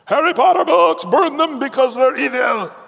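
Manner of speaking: loud, high-pitched alarmist cry; hammed-up outraged shouting, stretched out; mock outrage. Christians up in arms about Harry Potter, mock outraged shout.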